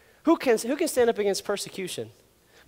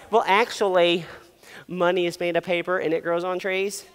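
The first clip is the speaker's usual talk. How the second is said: put-on smart-aleck kid; 3 semitones lower, 3 dB quieter than usual. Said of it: "then you were like".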